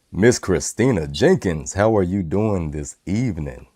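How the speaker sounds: trying out a smooth late-night voice; lightly put-on laid-back host, easing down at the end; laid-back smooth talk. Shown as a demonstration. Host testing his new mic on a listener, laid-back and smooth. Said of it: "let me try this".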